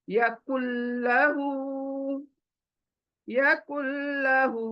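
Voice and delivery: slow या कुल्लहू with the doubled ल्ल held; recited example. Shown as a demonstration. Teacher reciting the example twice for students, slowly. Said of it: "तो कैसे देखें".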